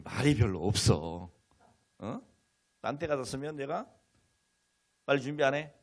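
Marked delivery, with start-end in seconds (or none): 5.0-5.7 mildly snapped hurry-up order; impatient father. Acted. Father hurrying daughter to church, mildly impatient. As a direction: act a touch cross with a child. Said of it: "좀 못된 아버지가 됐을 텐데".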